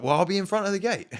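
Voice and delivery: high, loud cheeky defiance; loud high stubborn challenge; mock defiant threat. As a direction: dare her to leave him blocking the gate. Defiant at the barrier.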